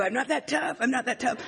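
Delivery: playful chickening out; mock cowardly. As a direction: lose your nerve comically. Acting out losing her nerve.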